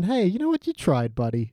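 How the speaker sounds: sincere pat-on-the-back consolation; genuine encouragement. Pretend. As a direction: console them kindly, like you mean it. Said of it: "like a genuine".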